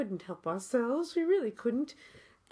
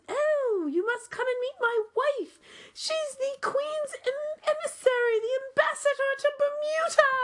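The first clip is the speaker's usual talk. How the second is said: Irishman voice; 11 semitones higher than usual. Retold or imitated. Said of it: "And he said".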